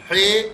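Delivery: "ہے" with a lax "ay" vowel; "ہے" said "hay", not "hee"; wrong "hay". Shown as a demonstration. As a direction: show the faulty syllable "ہے" as "hay". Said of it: "نہیں پڑھیں گے".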